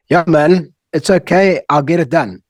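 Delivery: acted casual confidence; breezy brush-off. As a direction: play it upbeat and dismissive, promising it is handled. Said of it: "What role are you playing?".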